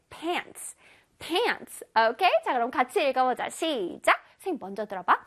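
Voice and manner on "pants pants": "pants" stressed as one whole word. Shown as a demonstration. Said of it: "전체적으로 강세를 줘야 돼". ("pants" 전체에 강세)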